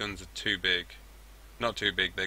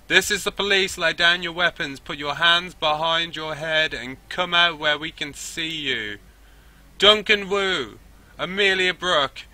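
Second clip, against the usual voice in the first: loud, high, drawn-out police loudspeaker call; officer on megaphone; 8 semitones higher, 9 dB louder, slower than usual. Acted. Officer orders the suspects out, megaphone bellow. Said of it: "officer on megaphone, a voice blows out from a loudspeaker".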